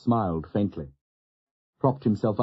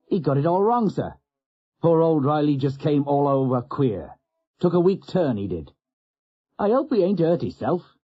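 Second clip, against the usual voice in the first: pitying stoker; 6 semitones higher than usual. Retold or imitated. Stoker Nobby lying to the doctor, high mock pity. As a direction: sell the lie with mock pity. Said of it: "looks at him pityingly and says".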